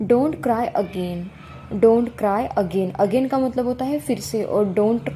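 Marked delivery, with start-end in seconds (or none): 0.1-2.9 slow model reading. Shown as a demonstration. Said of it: "teacher models the sentence slowly".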